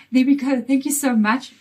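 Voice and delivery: croaky from a cold chest. Real, not acted. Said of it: "patient with my croaky voice".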